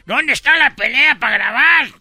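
high eager questions; excited crowd. Retold or imitated. Bystanders excitedly asking for the fight to film, high. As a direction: rush in asking where the fight is.

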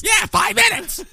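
high, slow, shouted mayor voice; Rob Ford angry. Retold or imitated. Host echoes the mayor's tirade, mock shouting. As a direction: drag out a furious yell. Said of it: "I love when he's angry".

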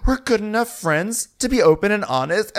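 imitating Kyle. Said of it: "And Kyle's like".

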